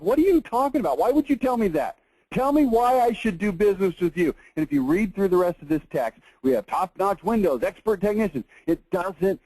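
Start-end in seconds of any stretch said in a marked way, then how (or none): 0.0-4.3 higher, incredulous mock prospect; a puzzled customer pushing back, voiced higher; baffled prospect. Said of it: "the guy's looking at him like".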